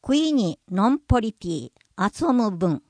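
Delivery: クイにのんぽりティ遊ぶ文 said "kwi-ni nomporipi atsobumu"; P in のんぽり, TS in 遊ぶ; Yayoi-language pronunciation. Shown as a demonstration. Narrator puts the climbing sentence into Yayoi language. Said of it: "木に登って遊ぼうは".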